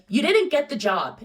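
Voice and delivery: mock the interviewer blurting it out; loud announcement. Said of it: "she said it so fucking loud".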